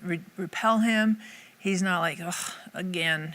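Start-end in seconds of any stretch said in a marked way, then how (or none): 2.2-3.3 slow, understated exasperated groan; mock frustration. Imagined Jesus tired of our failings, mock frustrated. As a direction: sigh it out slowly, mildly fed up. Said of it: "He's not frustrated".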